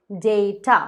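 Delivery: डेटा as "day-ta"; long "ay" in डेटा, two clear syllables; correct pronunciation. Shown as a demonstration. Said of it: "इसका pronunciation है". (डेटा को "डे-टा" बोलें)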